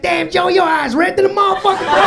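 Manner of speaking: high, loud, hammed-up amazed guard; mock astonishment. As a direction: exclaim at a buddy's startling state. Security guard astonished at red eyes.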